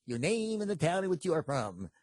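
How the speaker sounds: lightly voiced faith-healer preacher; Ernest Angley impression. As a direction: put the formal question like a TV preacher. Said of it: "he would always start the same way".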